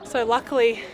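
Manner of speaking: breathless from the steep climb; winded, pausing between phrases; out of breath. Real, not acted. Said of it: "sorry, I'm out of breath".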